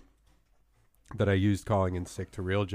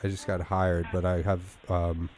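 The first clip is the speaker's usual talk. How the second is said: fake sick voice. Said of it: "my fake sick voice".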